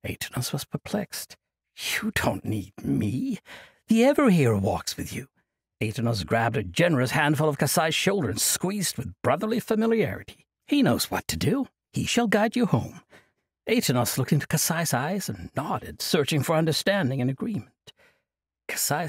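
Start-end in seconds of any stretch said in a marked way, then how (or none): 1.7-13.0 put-on jovial old monk. Old monk cheerfully refusing Kasai's plea, jovial. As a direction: laugh off the burden like a merry elder.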